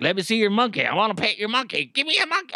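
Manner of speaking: high, pleading mock voice of an overeager woman; mock eager woman. Neighbor's victim imagined begging for the monkey, high mock whine. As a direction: whine it like a grabby child wanting a pet. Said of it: "was like".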